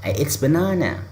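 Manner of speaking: bright, high model sentence; correct English example. Shown as a demonstration. Teacher shows students the right way, bright and high. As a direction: say it like the model answer. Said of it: "Harusnya kita akan bilang gini".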